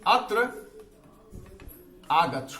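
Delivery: a Sanskrit summons, stretched and called; long calling vowels in Sanskrit. Shown as a demonstration. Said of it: "जैसे आप कहते हैं".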